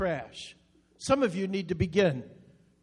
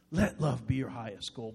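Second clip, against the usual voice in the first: soft repeat; 7 semitones lower, 8 dB quieter than usual. Shown as a demonstration. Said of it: "Isn't that beautiful today?".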